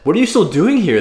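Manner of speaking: incredulous retold question, jumping high; imitating astonished grandma. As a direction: voice grandma's disbelief, pitched well up. Grandma's quoted exclamation to them.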